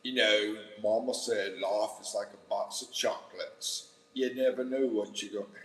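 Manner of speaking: put-on botched Southern accent slipping into English-Australian; Forrest Gump. Streamer retrying Forrest Gump, Southern accent sliding into Australian. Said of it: "I'm still doing that freaking England, Australian stuff".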